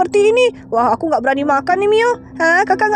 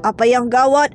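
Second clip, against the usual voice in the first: lower, puzzled doctor; a doctor asking what's wrong, lower; 6 semitones lower than usual. Acted. Voices the doctor figure. (dokter bersuara lebih rendah)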